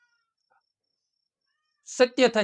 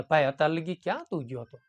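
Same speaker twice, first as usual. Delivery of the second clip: softer and lower, a kind father asking; gentle asking; 4 semitones lower, 5 dB quieter than usual. Shown as a demonstration. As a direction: ask gently, no blame. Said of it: "તો કેટલો તફાવત થાય".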